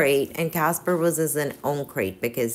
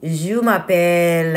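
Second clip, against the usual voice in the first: slow, louder stab at a French accent; attempted French accent; 5 dB louder, slower than usual. Shown as a demonstration. Vlogger unsure how to say French, attempted French accent. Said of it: "how to say the French".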